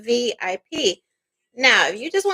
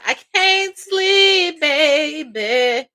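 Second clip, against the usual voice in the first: mock lovesick man; 3 semitones higher, much slower than usual. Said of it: "he like".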